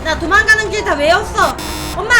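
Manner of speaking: ordinary delivery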